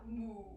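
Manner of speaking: understated cow moo; a simple moo like a cow. Shown as a demonstration. Teacher cueing children into cow pose, gentle moo. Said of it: "drop your belly for cow".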